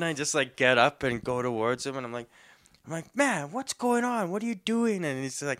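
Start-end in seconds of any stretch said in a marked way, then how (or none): 3.1-5.0 a startled friend asking what happened; mock bewildered. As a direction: act out the shock of seeing him. Confronting bloody friend.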